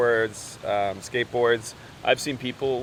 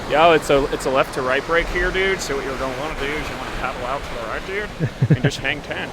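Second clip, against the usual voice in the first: surfer dude voice; 3 semitones higher, 5 dB louder than usual. Acted. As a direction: play a chill surf instructor bro. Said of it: "You're sounding like a pro surfer already".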